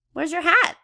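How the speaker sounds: high, loud worried question; worried call. Acted. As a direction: call out to her in alarm. Child calls out question.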